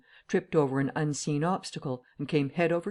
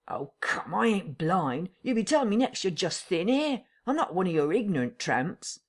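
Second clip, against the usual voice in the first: a lightly voiced tramp, pressing; country vagrant wanting answers; rustic tramp, impatient; 4 semitones higher than usual. Tramp Marvel presses the invisible voice, a lightly voiced rustic tramp.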